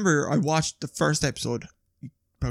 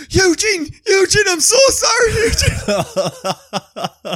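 put-on high, loud apologetic wail of an old man; old driver apologises to the man he hit, high frantic wail; 6 dB louder, much slower than usual. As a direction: plead with him like a panicked old driver. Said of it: "He was like".

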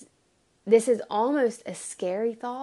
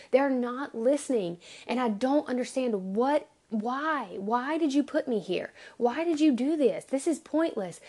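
pleading, mildly exasperated protest; Jeremiah's frustrated complaint; 3 semitones higher than usual. Acted. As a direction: argue with God in rising frustration. Acts out Jeremiah's complaint to God.

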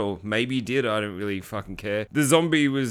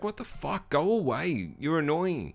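bitchy; 5 semitones higher, 4 dB quieter than usual. Retold or imitated. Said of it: "he's just so bitchy about it".

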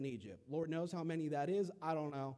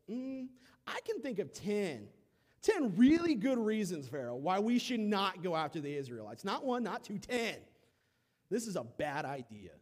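wise advisor; 4 semitones higher, 6 dB louder than usual. Acted. Imagined advisor objecting.

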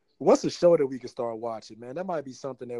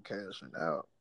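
ordinary delivery

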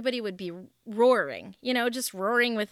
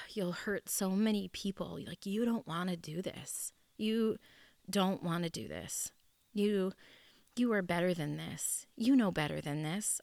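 pleading; 5 dB quieter than usual. Retold or imitated. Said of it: "I kept relentlessly saying".

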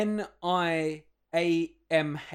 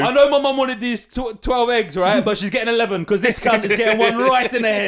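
louder, laughing mock rant; hammed-up thug justifying the throw; a cheeky mock yell; 1 mock egg-thrower rant; 3 semitones higher, 5 dB louder than usual. Imagined egg thrower, mocked.

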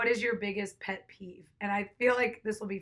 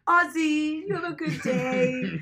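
dog voice; 3 semitones higher, 3 dB louder than usual. Retold or imitated. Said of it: "roasts me for my dog voice".

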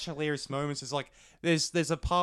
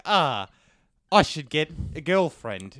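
dazed Nick Cage; 6 dB louder, slower than usual. Retold or imitated. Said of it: "he's just like".

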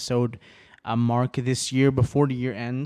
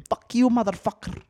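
higher, punchy hammed-up movie insult, said twice; quoting movie scene; 10 semitones higher than usual. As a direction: relish the film line like a fan. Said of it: "I love that scene".

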